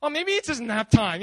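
teasing mock suggestion; acted mock-innocent taunt; making fun. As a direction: needle them playfully. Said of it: "he's making fun of them".

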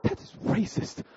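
high, half-voiced mock indignation; mock outrage. Boy answers his friend's excuse, in mock outrage. Retold shocked reply to friend.

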